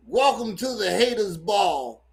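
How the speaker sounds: shouted mock announcer welcome; mock announcement. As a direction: announce it like a party host.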